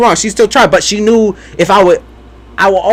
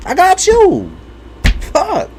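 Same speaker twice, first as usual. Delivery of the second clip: much higher, mock cocky. Teasing her mother in a high mock voice. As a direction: pitch it way up, brash and teasing. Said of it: "I was like".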